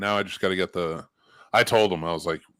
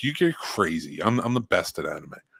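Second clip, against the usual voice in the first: put-on indignant tone. Retelling an argument about anime with a friend: imitating own indignant tone. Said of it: "And I get real indignant about it".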